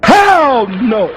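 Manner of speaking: a loud, punchy hell no; loud refusal. Real, not acted. Minister rejecting a multiracial Islam, loud refusal. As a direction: slam the door shut on the idea.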